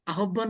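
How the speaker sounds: আহ্বান said as spelt, "ahobban"; spelling pronunciation. Shown as a demonstration. Teacher showing the wrong reading of আহ্বান as "ahobban". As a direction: read আহ্বান letter by letter, "a-hob-ban". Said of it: "বলা যায় না".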